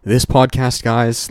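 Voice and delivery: breathless after a heated rant; catching your breath mid-sentence. Real, not acted. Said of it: "let me just catch my breath".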